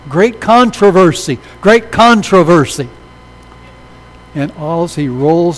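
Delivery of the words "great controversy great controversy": slow, loud called-out words; yelling. Retold or imitated. Young man yelling at the elder in the car, slow loud call. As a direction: shout it across at the car window, slowly. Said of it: "the young man is yelling".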